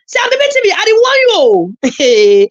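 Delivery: a slow, drawn-out threat; slow warning. Real, not acted. To the rival, slowly warning her off. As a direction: warn them slowly and deliberately.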